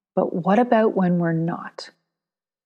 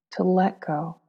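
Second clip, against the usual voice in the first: soothing, unhurried guidance in short, spaced phrases; guided meditation. Acted. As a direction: ease the listener into letting go, lingering on each phrase.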